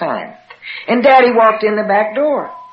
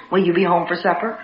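mild, softer supper-time question; gentle asking; 2 semitones lower, 4 dB quieter than usual. Retold or imitated. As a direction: ask it casually, without pressing. Escalating supper question, first gentle take.

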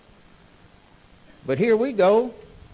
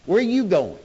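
raised call after someone leaving; mother hollering; 5 semitones higher than usual. Retold or imitated. Mother calls after her son walking off, a raised holler. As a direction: shout after him as he walks away. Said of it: "she's hollering".

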